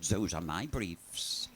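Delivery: put-on French accent. French woman answers, slow and low.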